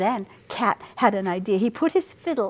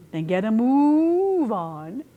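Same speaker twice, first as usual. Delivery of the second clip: bossy order; 3 semitones higher, slower than usual. Acted. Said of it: "Cat ordered".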